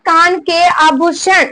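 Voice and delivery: slow group recitation. Shown as a demonstration. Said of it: "एक बार बोलो मेरे साथ साथ".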